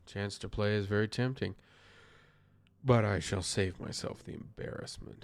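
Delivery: lightly voiced detective reading; Poirot. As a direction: read it as a mildly put-on detective. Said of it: "I'm doing the best accent for Poirot".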